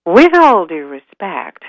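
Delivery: slow, loud elk voice; slow, emphatic courtesy; ponderous elk. Acted. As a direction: object with drawn-out deference. Elk politely objects to elder.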